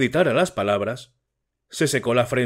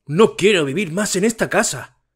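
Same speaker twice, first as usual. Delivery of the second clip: tearful shout; 6 semitones higher than usual. A narrator's reading. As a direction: shout it with tears rising. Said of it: "gritó el estudiante, llorando".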